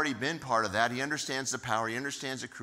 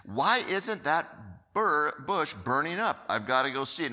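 higher, louder, eager wonder; curious excitement; 5 semitones higher, 4 dB louder than usual. Retold or imitated. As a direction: lean in, dying to go look. Moses marvels at burning bush.

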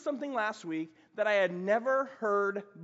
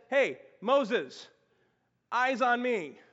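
1 calling for attention; 4 semitones higher, 5 dB louder, much slower than usual. Acted. God calling Moses to attention.

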